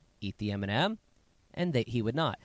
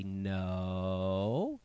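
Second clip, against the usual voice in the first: long, low, even "No" that curls up at the end; slow parental no, held and steady; drawn-out warning no; 4 semitones lower than usual. Retold or imitated. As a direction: stretch out a calm, low no to a toddler. Parent telling toddler no.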